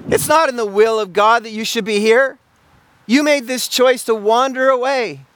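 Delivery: rebuking God. Retold or imitated. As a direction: press him hard on why he's here. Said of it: "God is literally saying to Elijah".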